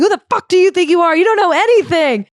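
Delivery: high-pitched shouted fury; retold screaming. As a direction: scream it back at him, outraged. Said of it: "And she keeps going".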